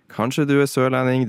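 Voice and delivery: badly faked Sørlandet dialect; failed southern Norwegian accent. Shown as a demonstration. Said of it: "det ble nord, men jeg sa sør". (mislykket sørlandsdialekt som blir nordnorsk)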